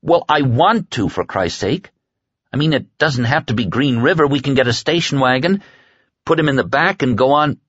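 high-pitched, insistent protest; exasperated pleading. Acted. Larry pleads to take Stu along.

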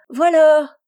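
high, loud waiter's answering shout; very high-pitched call from far across the room; shrill cry. A narrator's reading. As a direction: fling it out in a piercing high voice.

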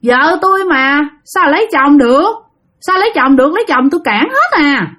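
slightly high, possessive spirit voice; mildly acted ghostly protest; possessed grandmother refusing. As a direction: claim her as your wife, a hint of spirit voice. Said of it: "Nói vậy đó các bạn".

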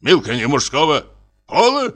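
пола shot up high in disbelief; Милка не мужского пола? as if the idea is absurd; mock-indignant disbelief; incredulous outrage. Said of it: "изумился поручик".

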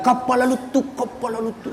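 soft, imitated running chant; child chasing plane. Preacher as village boy chasing a plane, imitated calling.

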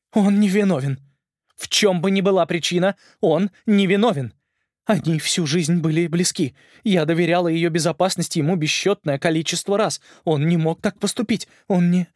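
high, loud, pleading denial; desperate insistence. A narrator's reading. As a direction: refuse to believe it, rising to breaking. Queen desperately defends lord. (отчаянное отрицание, высоко и громко)

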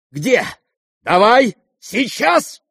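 high, loud grabbing command; snatch for the note; impatient demand. Acted. Lizaveta demanding the note at once, impatient.

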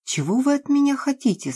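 high, quick, frightened question; a shaky plea from a cornered woman; trembling voice. A narrator's reading. Frightened Nastya asks the intruders, high and fast. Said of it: "спросила Настя дрожащим голосом".

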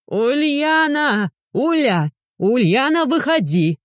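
high, drawn-out call from outside; крик с улицы. A narrator's reading. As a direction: call her name across the yard. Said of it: "Раздавшийся крик". (зовёт через забор)

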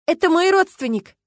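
high, loud desperate shout; desperate cry. Acted. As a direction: cry it out to get past the cop. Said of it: "отчаянно закричала Люба". (отчаянный крик, высоко и громко)

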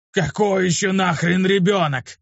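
high, slow, flabbergasted shout; stunned yell. A narrator's reading. Luke yelling at the girl, stunned by her claim. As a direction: yell back in disbelief. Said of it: "закричал на неё ошалевший".

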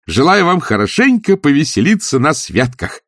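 high-pitched, buoyant holiday greeting; cheerful exclamation. A narrator's reading. Nephew bursting in to greet his uncle, cheerful exclamation. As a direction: call it out full of good cheer. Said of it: "раздался жизнерадостный возглас".

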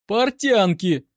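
high, drawn-out delighted exclamation. A narrator's reading. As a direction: marvel loudly, stretching the word. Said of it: "восхитился корнет".

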